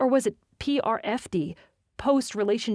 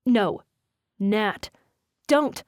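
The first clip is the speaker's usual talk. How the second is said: sharp warning; 5 dB louder, much slower than usual. Acted. Jesse warns Jensen off.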